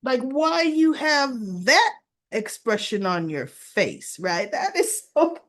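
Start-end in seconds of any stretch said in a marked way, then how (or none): 0.2-4.2 mock questioning. Acting out Haley questioning Bill.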